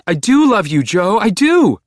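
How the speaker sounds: Beck pleading. A narrator's reading. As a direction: beg him to stop. Beck protesting love.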